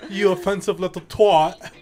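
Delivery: mock-offended British accent, laughing. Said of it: "We're British now".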